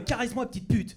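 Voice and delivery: high, loud weird little voice; put-on little voice, pitched high. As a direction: pipe it up in a silly small voice. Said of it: "la petite voix, euh, qu'on utilise un peu bizarre".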